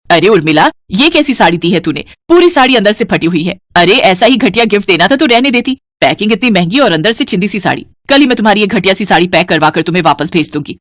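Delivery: scolding. Acted. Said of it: "वो उस पर खूब चिल्लाती है".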